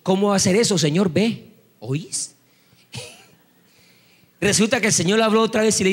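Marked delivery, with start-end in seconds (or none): 0.0-2.3 put-on Caleño accent. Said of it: "Como es caleño, él decía".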